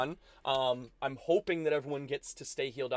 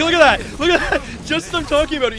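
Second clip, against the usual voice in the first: loud, high-pitched burst of excitement; startled excitement; 13 semitones higher, 11 dB louder, faster than usual. Real, not acted. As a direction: call it out, as if just proven right. Enemy pops out mid-explanation.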